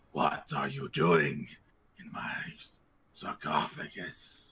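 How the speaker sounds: very low, slow, ghostly, ghastly voice. Game master voicing a figure rising from a sarcophagus, very ghastly voice. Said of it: "says in a very ghastly voice".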